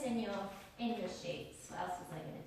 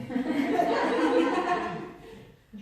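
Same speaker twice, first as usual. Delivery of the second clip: real laugh; 4 semitones higher, 10 dB louder than usual. Real, not acted. Laughing at her vowel demo.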